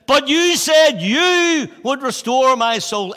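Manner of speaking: slow, high plea to God; praying to God. Retold or imitated. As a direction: plead with God slowly. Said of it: "I say, "God".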